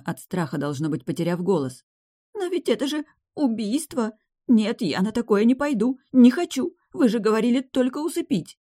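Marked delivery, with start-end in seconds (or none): 2.3-8.6 high, frightened, rising to a cry; girl refusing murder; protesting girl. A narrator's reading. (испуганная девушка, высоко, с надрывом)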